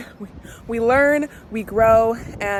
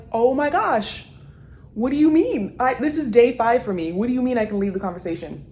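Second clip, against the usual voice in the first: flustered disbelief. Retold or imitated. Acting her own flustered reaction.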